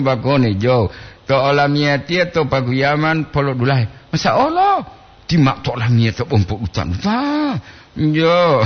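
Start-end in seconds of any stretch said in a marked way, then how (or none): 4.1-4.8 surprised exclamation. Real, not acted. Exclaims at greeting.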